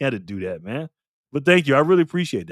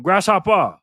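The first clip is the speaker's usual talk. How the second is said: put-on playful Asian-accented greeting, higher and louder; mock Asian accent; 4 semitones higher, 5 dB louder than usual. Streamer greeting a regular viewer by name, mock Asian accent. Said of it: "say it in an, uh, Asian accent".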